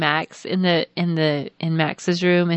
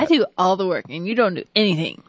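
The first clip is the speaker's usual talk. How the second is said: mock accusation; faster than usual. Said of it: "I'm just kidding".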